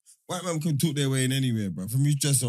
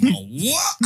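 shocked question; 6 semitones higher, 5 dB louder than usual. Retold or imitated. Dan shocked at news.

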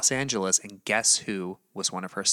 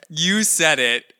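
teasing emphasis; 5 semitones higher, 7 dB louder, much slower than usual. Real, not acted. Teasing co-host's blunt remark.

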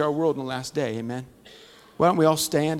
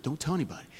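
much softer hushed plea; secret aside; 10 dB quieter, much faster than usual. Retold or imitated. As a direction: keep it between us. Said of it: "It was like a secret".

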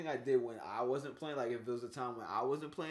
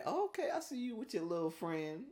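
approving tease; 4 semitones higher, 5 dB quieter than usual. Shown as a demonstration. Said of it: "That's a different story than".

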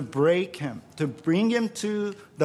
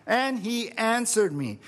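higher, emphatic scripture quote; delighted repeat; 6 semitones higher than usual. Acted. Preacher relishing the verse for the congregation, delighted. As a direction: lift the pitch and relish the line.

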